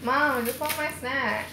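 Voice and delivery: put-on slow, lightly whiny kid voice; voicing whiny toddler. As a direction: drag it out like a pouting little kid. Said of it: "She's like".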